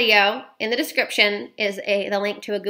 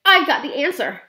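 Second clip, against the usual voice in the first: louder, higher burst of discovery; excited shout; 5 semitones higher, 5 dB louder than usual. A narrator's reading. Boy leaping up tells grandmother his answer, excited shout. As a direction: announce the idea with a jump of joy. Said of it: "I shouted, leaping about a foot in the air".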